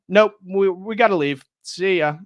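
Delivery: hasty Mozart. Retold or imitated. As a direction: blurt it out and bolt. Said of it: "And he".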